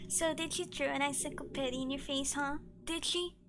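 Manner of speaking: put-on whiny old man voice; nasal, whining elderly man; whiny nasal old person. Shown as a demonstration. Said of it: "practice my old man voice".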